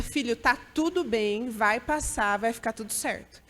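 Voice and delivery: gentle mother's reassurance; soothing child. Retold or imitated. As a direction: hush a frightened child.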